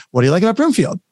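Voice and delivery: sample question with lifted intonation on "like about Broomfield"; question tune. Shown as a demonstration. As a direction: raise the voice through "What do you like about Broomfield?". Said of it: "goes up at the end".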